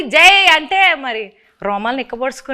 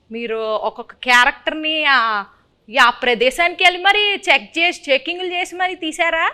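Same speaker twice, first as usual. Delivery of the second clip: host keeps a light Srikakulam dialect with the guests; Srikakulam slang. Acted. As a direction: chat on in an easy Srikakulam accent. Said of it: "Srikakulam slang బానే ఉందండి". (శ్రీకాకుళం యాసలో సరదాగా)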